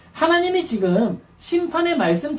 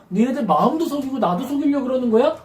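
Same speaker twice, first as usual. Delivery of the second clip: ordinary talk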